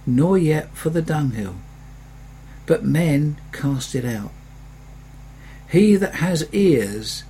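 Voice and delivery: slow, measured reading of scripture; solemn scripture reading. Acted. Preacher reads Jesus' words to the congregation, slow and solemn. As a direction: read each phrase slowly and with weight.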